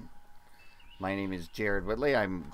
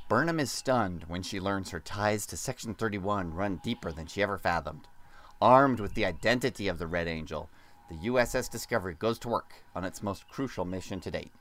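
put-on announcer narration, pitched down at the ends; fake radio voice. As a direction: read the synopsis like a radio promo. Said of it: "fake radio voice like Brian does".

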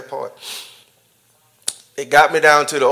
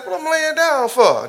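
attitude; 11 semitones higher than usual. Retold or imitated. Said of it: "Now I'm getting attitude".

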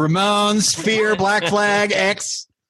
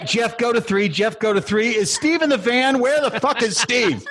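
raised-pitch mock director calling cameras; panicked production crew; 4 semitones higher than usual. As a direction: fire off urgent orders as if losing control of the shoot.

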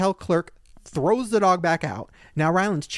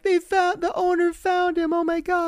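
high, breathless rush of news; excited news; 13 semitones higher than usual. Retold or imitated. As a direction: burst in with the big news. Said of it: "I'm like".

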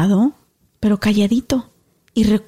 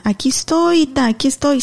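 put-on higher childlike call; calling as a child; 5 semitones higher than usual. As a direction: call out to grandma like a little girl. Child self calling grandma.

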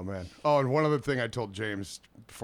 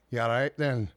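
put-on British accent. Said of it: "with the accent".

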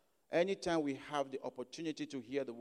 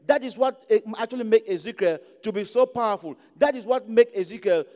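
louder, raised-pitch sermon delivery; preaching; 6 semitones higher, 9 dB louder than usual. Real, not acted. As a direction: preach it out with emphatic, driving phrases. Preaching on Ezekiel and the exile.

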